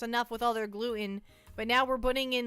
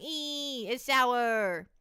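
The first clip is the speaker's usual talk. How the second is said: imitating sour face; much slower than usual. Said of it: "They're like".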